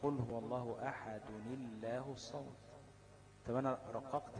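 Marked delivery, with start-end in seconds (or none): 0.0-2.5 Quran recitation. Shown as a demonstration. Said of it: "ده وصلتها حول إيه؟".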